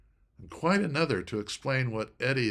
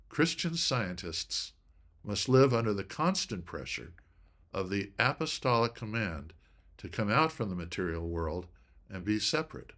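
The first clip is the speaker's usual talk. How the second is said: constant leaned on a little more; emphasis on constant. Shown as a demonstration. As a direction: give the word constant a little extra weight. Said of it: "I put a little more emphasis on the word constant".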